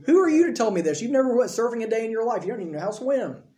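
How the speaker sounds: mock incredulous. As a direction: imitate an expert scoffing at a novice. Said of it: "he'd laugh at me".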